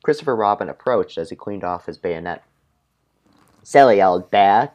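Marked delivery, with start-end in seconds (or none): 3.6-4.7 gently. Acted. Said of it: "gently reminded".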